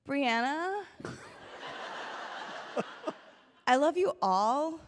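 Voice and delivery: put-on Valley Girl accent. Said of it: "I'll Valley Girl it for Richard".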